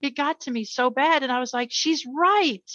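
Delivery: fighting back tears over her daughter's words; getting emotional. Real, not acted. Mother recalling her daughter's plea, choked up. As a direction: voice rising with emotion, a slight laugh. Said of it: "I don't mean to get emotional".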